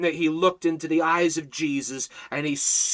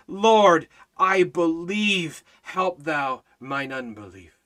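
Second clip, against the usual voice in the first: tearful plea; 4 dB louder, slower than usual. Acted. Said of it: "cried out and said with tears".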